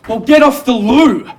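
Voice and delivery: high, loud, drawn-out yell; alarmed shout. Acted. Husband to wife whose waters broke, alarmed high shout. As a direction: shout the order in comic alarm.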